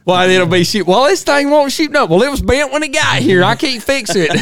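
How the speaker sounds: high, loud grumbling repairman; grumpy gunsmith. Pretend. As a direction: complain like a cranky gun shop owner. Playing the gunsmith, laughing.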